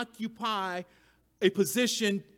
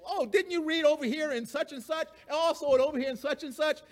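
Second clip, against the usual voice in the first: offhand Paul; 6 semitones higher, faster than usual. Retold or imitated. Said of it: "He's like".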